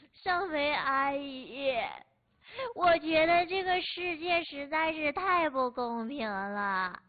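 put-on slow, drawn-out little boy complaining; small child's voice. Neighbour boy telling the auntie the world is unfair, slow childlike whine. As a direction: sound like a sulky kid telling auntie his woes.

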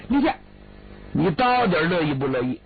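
high, flustered pleading to a crying sister; panicked older brother begging her to stop crying. Acted. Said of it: "李俊傻眼了".

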